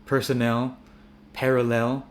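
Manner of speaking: personnel, parallel with a full clear 'el' ending; emphasized EL. Shown as a demonstration. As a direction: lean on the last syllable of personnel and parallel. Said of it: "you can emphasize it".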